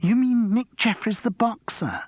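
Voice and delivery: high, slow and breathless with excitement; starstruck. A narrator's reading. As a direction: gush over the celebrity. Starstruck female contestant.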